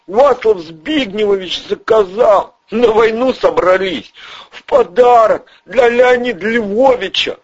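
high, jittery small-time crook; squeaky nervous crook voice; Ryzhy's voice. Acted. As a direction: pitch way up and talk fast like a nervous hustler. Ryzhy's voice in audiobook.

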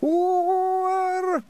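a long, high, wailing Oor; high poetic moan. Acted. A pixie wailing as poetry takes hold, long high moan. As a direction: wail like a pixie seized by the muse. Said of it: "Somewhere a voice went".

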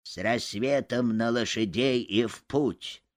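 put-on creaky old man's voice, slow; a creaky, aged rasp. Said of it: "скрипучим голосом сказал один".

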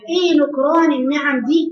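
loud, rising rebuke; loud preacher's reproach; rebuking cry. Real, not acted. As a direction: scold the congregation for ingratitude.

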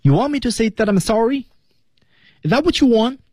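high-pitched film line, rising at the end; pitched high, lifting into a challenge; high rising question. Shown as a demonstration. Teacher models Marty's question for learners, high rising.

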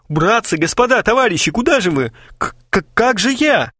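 high stammering panic; desperate pleading. Acted. Kharchenko begs his leaving friends, high and stammering. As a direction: beg them to stay, stumbling over words.

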